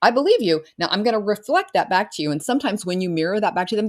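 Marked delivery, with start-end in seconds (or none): 0.0-2.3 bright, eager mirroring of a client's dream; enthusiastic belief. Retold or imitated. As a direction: tell them warmly you believe them. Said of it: "what you're really doing is saying".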